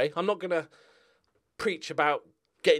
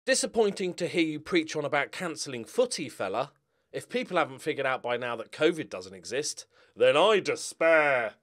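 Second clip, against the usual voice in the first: dramatic reading. Shown as a demonstration. YouTuber giving viewers a dramatic reading of a troll comment. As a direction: read it like a solemn recital, dragging the end. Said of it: "a small dramatic reading of a couple of the comments".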